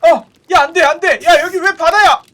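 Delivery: high, loud urgent yelling; panicked shouting. Real, not acted. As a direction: yell urgently to escape. Swimming out of the sea.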